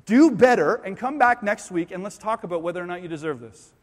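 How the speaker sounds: a bossy preacher laying down terms, punching do better; preachy demanding pastor. Retold or imitated. Preacher mocking a false gospel to the congregation, bossy and demanding. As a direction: lecture them to try harder, like a stern preacher. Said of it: "The gospel is not".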